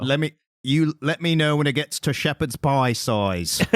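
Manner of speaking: slow, hammed-up British accent; bad British accent. Asking co-host about baby's size, bad British accent. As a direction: exaggerate your British accent, badly. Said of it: "Why did you do a bad British accent?".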